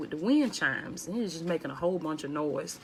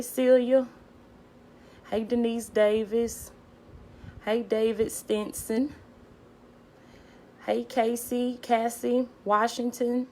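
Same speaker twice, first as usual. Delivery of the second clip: louder, higher hellos, slow; calling out names; 5 semitones higher, 5 dB louder, slower than usual. Real, not acted. Greeting viewers by name, loud and high. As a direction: call each name out warmly and up high.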